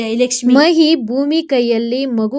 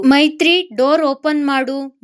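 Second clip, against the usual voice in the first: raised, urgent call through a shut door; 3 semitones higher, 4 dB louder than usual. Acted. Husband banging on the locked door, raised urgent call. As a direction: shout her name through the door. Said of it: "ಬಾಗಿಲು ಬಡಿಯುತ್ತಾ ಹೇಳಿದ ಮಹಿ".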